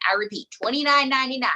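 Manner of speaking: fast, punchy sales pitch; infomercial. Shown as a demonstration. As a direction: hammer the price like an ad. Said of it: "I sound like an infomercial".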